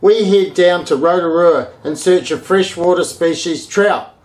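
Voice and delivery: punchy, projected episode teaser; show intro announcer. Acted. Host teasing the episode to viewers, punchy announcer read. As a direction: sell what's coming up on the show.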